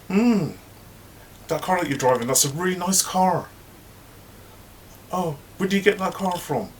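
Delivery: high sugary fake compliment; fake-sweet gossip. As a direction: gush falsely high over her car. Mother hen fake-nice to Jay.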